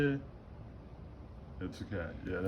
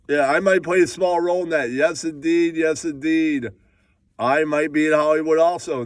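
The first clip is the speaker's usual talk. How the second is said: hyped showbiz voice; 4 semitones higher, 3 dB louder than usual. Acted. Hyped persona, higher louder faster.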